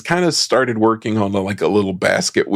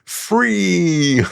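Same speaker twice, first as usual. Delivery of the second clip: mock scream; 9 semitones higher than usual. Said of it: "running around screaming".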